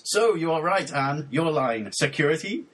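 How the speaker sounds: measured, over-deliberate poem reading; deadpan lyric recitation. Acted. Host reading mangled lyrics for co-host to guess, measured mock-serious recitation. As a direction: recite each phrase as a separate solemn statement.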